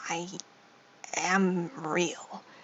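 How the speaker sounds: soft, quiet, sure, affirming delivery. Describing how the stand would look at its hands and speak, quiet and affirmative. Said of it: "like quietly and like affirmatively".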